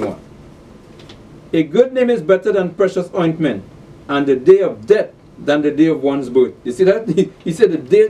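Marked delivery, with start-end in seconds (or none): 1.5-6.5 raised, declaimed Bible verse; scripture reading. Acted. Preacher reads of the silent mourners, declaimed scripture reading. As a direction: proclaim the verse to the congregation.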